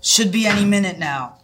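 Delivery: understated gruff, voiced whisper; lightly gruff, as a conspirator would. Paul the barista updates Taylor at the docks, mildly gruff whisper. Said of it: "Paul let out a gruff whisper".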